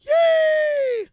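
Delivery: very high squealed cheer and giggle; squeaky cartoon mouse shout; Mickey Mouse. Shown as a demonstration. Host calls for cartoon voice, Mickey Mouse. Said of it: "Mickey Mouse".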